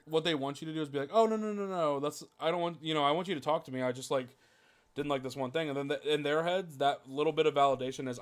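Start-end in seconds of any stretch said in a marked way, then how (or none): 1.1-5.7 mock reassuring. Imitating the hoped-for reassurance.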